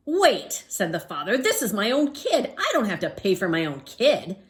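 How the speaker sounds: put-on father refusing to pay for his kid; indignant father. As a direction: object loudly. Father argues with cashier.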